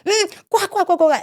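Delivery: laughing while retelling bullies' taunts; mocking laugh. Retelling schoolyard taunts to a friend, laughing mockingly.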